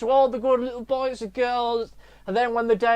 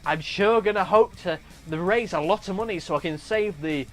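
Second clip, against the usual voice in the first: earnest golly-gee do-gooder voice; hammed-up innocent bystander chat; charity runner. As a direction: play a naively wholesome fun-runner. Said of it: "it'll be like a marathon runner".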